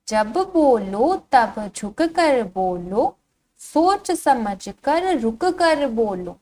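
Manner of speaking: slow, singsong verse reading; drawn-out, lilting children's poem; poem recitation. Shown as a demonstration. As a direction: recite slowly to a class, stretching the vowels. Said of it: "इस कविता को पढ़ना शुरू करते हैं".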